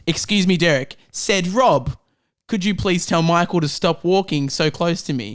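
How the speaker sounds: lightly put-on Australian accent. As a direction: read the story in Australian. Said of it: "the fan fiction in Australian".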